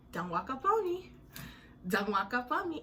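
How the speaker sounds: high sharp warning; telling the wife to stay back, high and sharp. Retold or imitated. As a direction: back her off, high and firm.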